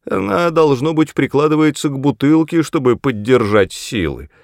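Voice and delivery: high, loud spiteful crone; gloating old woman. Acted. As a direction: snicker it out with malice. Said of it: "злорадно хихикнула старая бабка".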